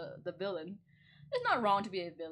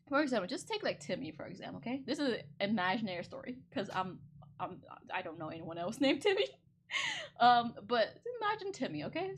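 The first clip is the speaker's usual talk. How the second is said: ordinary delivery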